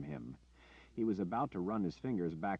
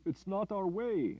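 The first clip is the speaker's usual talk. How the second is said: timid villager; 4 dB louder, slower than usual. Acted. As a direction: plead gently against violence. Peaceful villagers refuse Richard.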